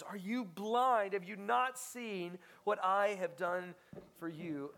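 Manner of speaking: rebuking. Retold or imitated. King confronting the wicked servant, loud indignant rebuke. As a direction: thunder at him like a wronged king. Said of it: "he went to that servant and he said".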